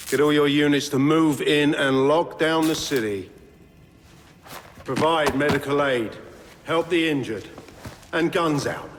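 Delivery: barked orders. Acted. Commander ordering units into the city.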